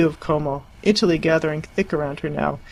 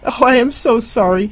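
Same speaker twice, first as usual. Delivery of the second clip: laughing; 6 semitones higher, 7 dB louder than usual. Acted. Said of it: "she cried back".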